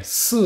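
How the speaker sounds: "Si" with a closed E vowel; Mandarin si. Shown as a demonstration. Teacher demonstrates "Si" with a closed E sound. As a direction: say "Si" with a small closed E. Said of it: "c'est un E fermé".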